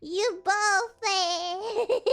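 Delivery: slow taunt broken by laughter; laughing taunt. Real, not acted. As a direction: tease while giggling. Teasing through laughter.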